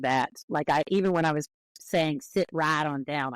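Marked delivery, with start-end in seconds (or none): 2.2-3.3 "right" like "rat", drawn out slowly; slow it, with a Southern "ah" in "right"; Southern vowel in right. Shown as a demonstration. Linguist quoting their own imitation, "right" as "rat". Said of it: "I accidentally said".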